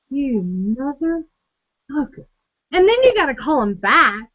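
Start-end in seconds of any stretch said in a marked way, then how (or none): 0.1-2.3 hushed disbelief. Retold or imitated.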